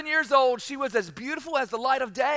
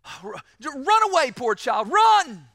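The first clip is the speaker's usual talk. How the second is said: urgent huntsman; 4 dB louder than usual. Acted. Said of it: "And he said".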